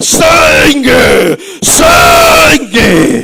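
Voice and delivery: loud, raspy, rough demonic roaring shout. Retelling the demon running at the speaker and shouting: imitating a demon shouting. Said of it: "ele gritou assim".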